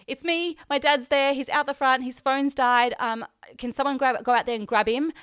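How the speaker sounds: mildly urgent, rattling off the situation; asking for help in a hurry; urgent plea retold. Urgent phone call for help, retold.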